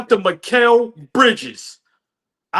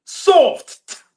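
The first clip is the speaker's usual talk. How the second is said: laughing; 5 semitones higher than usual. Retold or imitated. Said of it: "He said".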